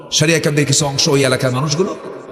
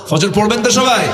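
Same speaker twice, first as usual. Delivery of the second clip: calling out; 6 semitones higher than usual. Real, not acted. Asks crowd loudly.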